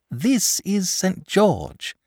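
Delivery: short and blunt introduction; curt. A narrator's reading. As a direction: clip it off shortly. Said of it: "said the boy shortly".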